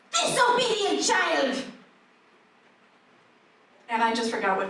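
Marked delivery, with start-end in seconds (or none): 0.1-1.6 slow, high scolding mother; stern mother. Retold or imitated. Mother scolding her child, slow stern call. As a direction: bark it like a strict mom. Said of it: "She would say".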